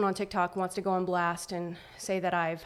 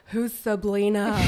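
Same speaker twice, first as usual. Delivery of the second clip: mocking troll voice; 4 dB louder, slower than usual. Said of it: "everyone's like".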